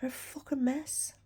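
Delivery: whispering. Real, not acted. Unvoiced aside.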